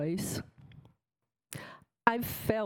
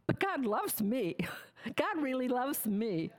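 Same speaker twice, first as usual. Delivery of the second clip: half-laughing, higher and giddy; laughing with joy; 5 semitones higher than usual. Retold or imitated. Telling her sisters, laughing with joy. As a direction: giggle through it with joyful disbelief. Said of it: "I kept repeating".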